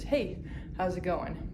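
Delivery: a light hint of an Argentine accent, slow and friendly; a faint Argentine accent on a passing greeting; Manu Ginobili accent. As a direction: casually imitate his Argentine accent in passing. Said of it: "in this very specific accent".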